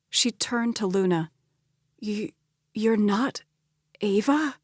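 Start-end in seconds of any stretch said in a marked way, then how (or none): 2.0-4.6 put-on childlike, plaintive. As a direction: ask like a lost child. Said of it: "Her voice was childlike, plaintive".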